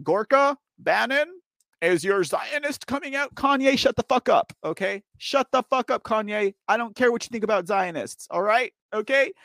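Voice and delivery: mock telling-off. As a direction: scold them like a fed-up host. Yelling at pundits and a rapper.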